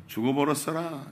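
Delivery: lightly imitated Jeolla accent; joking Jeolla dialect quote. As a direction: say it like someone from Jeolla. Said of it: "전라도 사람은요".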